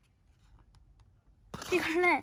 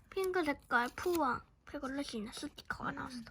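whispering; 6 dB quieter than usual. Real, not acted. Whispered description of sticker.

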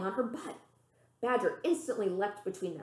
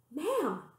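sharp raised call for Mam; 8 semitones higher, 5 dB louder than usual. Acted. Girl calling for her mother down the hall, raised and high. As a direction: cry out to reach her mother.

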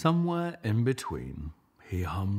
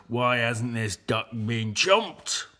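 lightly growling lions; 3 semitones higher, 3 dB louder than usual. Acted. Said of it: "they growled".

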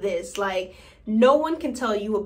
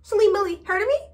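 mock diva boast; 8 semitones higher, faster than usual. Boastful self-introduction.

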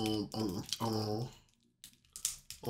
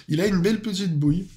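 laughing while saying it; 5 semitones higher, faster than usual. Real, not acted. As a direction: chuckle through the words. Repeats compliment, second time laughing.

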